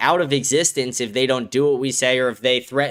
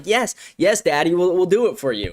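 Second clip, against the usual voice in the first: higher, eager, fawning whine; mock simpering Trump; 3 semitones higher than usual. Mocking Trump groveling to Netanyahu, simpering. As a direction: grovel like a lapdog saying yes. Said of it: "Donald Trump was like".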